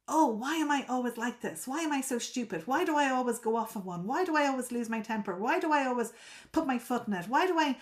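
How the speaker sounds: a mild mock self-scolding, questions piling up quickly; self-critical inner voice. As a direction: lightly act out someone berating themselves. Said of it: "you hear that voice that says something like".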